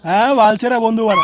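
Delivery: sarcastic mock yell; a hurt friend yelling a sarcastic retort; angry shout. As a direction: shout back bitterly.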